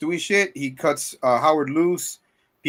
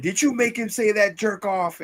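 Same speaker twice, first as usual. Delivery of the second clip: mock confrontation; 8 semitones higher than usual. Retelling trucker confronting the woman.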